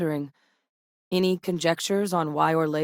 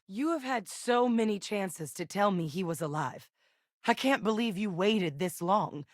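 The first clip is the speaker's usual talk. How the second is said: hurt reproach; 3 semitones higher, 3 dB quieter than usual. Acted. Confronting someone over hidden father.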